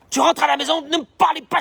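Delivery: mock irritable snap. Preacher mimicking an annoyed man coming home from work. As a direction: wave the family off, annoyed.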